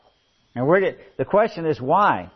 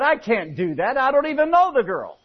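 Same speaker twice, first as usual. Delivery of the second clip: laughing punchline; 9 semitones higher, 5 dB louder than usual. Acted. Husband's punchline.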